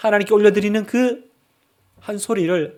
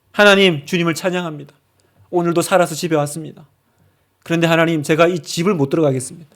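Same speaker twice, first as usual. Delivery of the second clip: earnest prayer. Acted. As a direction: pray it from the heart, rising to a plea. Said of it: "그때 기도하는 겁니다".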